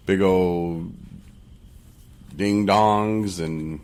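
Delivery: very slow, drawn out through a laugh; slow teasing. Real, not acted. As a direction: stretch each word, teasing. Slow suggestive list of snacks.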